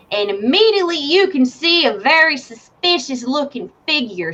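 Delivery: slow, ominous scene setting; dramatic narration. Acted. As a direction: draw the players in slowly.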